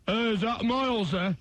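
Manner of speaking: mock Doncaster accent. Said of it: "The singer isn't from Doncaster".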